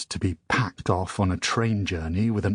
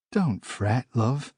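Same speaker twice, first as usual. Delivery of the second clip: gentle scolding; 3 semitones higher, slower than usual. Acted. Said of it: "scolded her husband gently".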